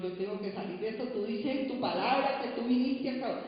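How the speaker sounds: loud, pleading cry to the Lord; tearful prayer. Retold or imitated. Woman retelling her weeping prayer to God, loud pleading. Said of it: "Yo lloraba y lloraba y lloraba y le decía".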